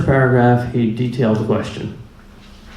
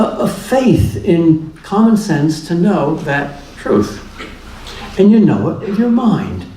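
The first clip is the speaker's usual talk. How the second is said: amused; 5 semitones higher than usual. Real, not acted. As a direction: chuckle through it, gently teasing. Laughing at naive truth.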